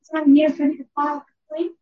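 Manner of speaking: hoarse lost voice. Real, not acted. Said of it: "Just can't hear anything".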